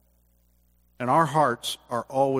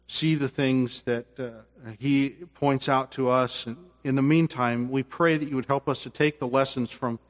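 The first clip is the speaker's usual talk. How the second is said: closing prayer; 2 semitones lower than usual. Real, not acted.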